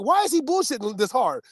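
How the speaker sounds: high, amazed mock question; a listener marvelling at the dad's answer, in mock disbelief. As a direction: sound baffled by how smooth he is. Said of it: "you're like".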